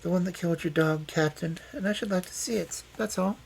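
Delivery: high, calm woman's voice. A narrator's reading. Detective asking to see the hammer, calm. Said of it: "said Loveday calmly".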